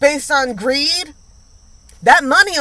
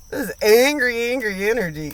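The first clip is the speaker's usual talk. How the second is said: normal talking voice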